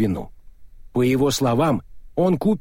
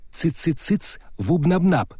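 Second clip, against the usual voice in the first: tiny squeaky voice down a speaking tube; thin distant squeak, half whispered; faint squeak through a tube; 4 semitones higher than usual. Acted. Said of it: "слабый, как писк паучка". (писк паучка в переговорной трубе)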